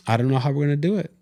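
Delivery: high, fast and cracking. Retold or imitated. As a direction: let the voice break on it. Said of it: "my voice cracked".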